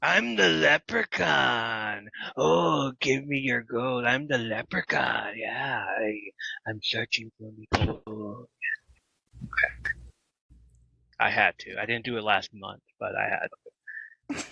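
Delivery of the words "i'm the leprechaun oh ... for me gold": slow, lightly put-on leprechaun. Hosts joking, lightly voiced slow leprechaun. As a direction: drawl it out like a greedy leprechaun. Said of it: "I just wanna say, you know".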